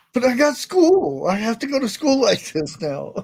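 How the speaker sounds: put-on child's voice complaining about her face; little girl voice. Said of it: "in a different accent".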